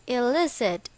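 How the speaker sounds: "illicit" stressed on the middle syllable, LIS; stress on second syllable. Shown as a demonstration. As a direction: say "illicit" as a model word, punching LIS. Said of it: "with the stress on the second syllable".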